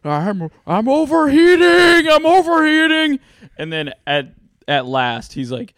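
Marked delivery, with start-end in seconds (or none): 0.0-3.2 put-on high, loud, slow accented scream; Asian accent. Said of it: "moaning and screaming".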